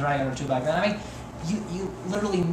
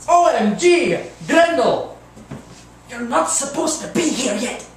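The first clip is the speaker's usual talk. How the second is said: surprised; 7 semitones higher, 5 dB louder than usual. Acted. Startled at Grendel's arrival.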